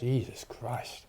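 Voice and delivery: slow, soft groan of pain; mouth burning from spicy food. Real, not acted. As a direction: breathe it out, mouth on fire. Chili burn reaction.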